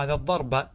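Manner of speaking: "الضرب" said ad-darba with final a; original case ending. Shown as a demonstration. Teacher gives original accusative, "الضرب" said ad-darba. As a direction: keep r vowelless, end "الضرب" on ba. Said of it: "أصله هذا الضرب".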